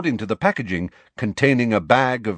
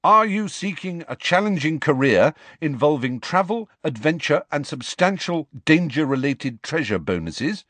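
lightly salesy, higher pamphlet voice; advert reading; 6 semitones higher than usual. A narrator's reading. Reading a bank's careers pamphlet to friends, salesy. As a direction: pitch the job like a recruitment ad. Reads pamphlet aloud in story.

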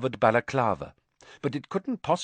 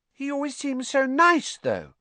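uncertain. A narrator's reading. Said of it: "said Hannah uncertainly".

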